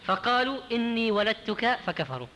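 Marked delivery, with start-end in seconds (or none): 0.7-1.8 ولدتك slow, with a single ل: waladtuka; undoubled lam in ولدتك; lam without shadda. Shown as a demonstration. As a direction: say ولدتك with the ل left light. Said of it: "بدون شدة".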